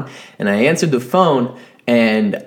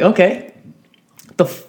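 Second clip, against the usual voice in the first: higher, louder mock exasperated snap with a laugh; grumpy snap; 7 semitones higher, 3 dB louder than usual. Starving at work, snapping at a caller, louder and laughing. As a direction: bite the caller's head off, half laughing. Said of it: "and I'd be like".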